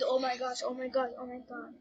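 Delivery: low, soft worried murmur; hushed dread. A narrator's reading. Narrator reacts to the scare.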